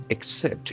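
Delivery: "Accept" with a clear k before the s; K sound in the middle. Shown as a demonstration. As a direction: say "Accept" as ak-sept. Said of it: "Double C will get K sound".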